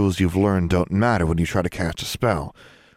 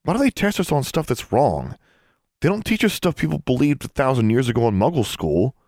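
put-on complaining boy; 6 semitones higher than usual. A narrator's reading. David complains, voiced high.

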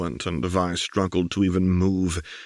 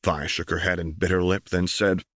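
usual speaking voice

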